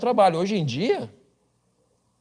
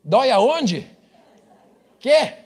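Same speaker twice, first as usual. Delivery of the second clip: high, louder bewildered cry; totally lost, pitched way up; baffled Brazilian; 8 semitones higher, 5 dB louder, much slower than usual. Retold or imitated. Pastor mocks a Brazilian mishearing German, high and louder. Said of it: "o cara".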